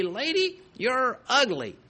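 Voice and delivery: high squawky parrot taunt; lightly voiced parrot jeering at her; mock parrot insult. Parrot insults lady in joke.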